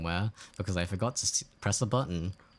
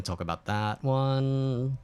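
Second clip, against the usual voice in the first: drawn out, emphatic; slowly, with mock gravity; slow and deliberate; 5 semitones higher, much slower than usual. Real, not acted. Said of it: "we're not gonna talk about that one".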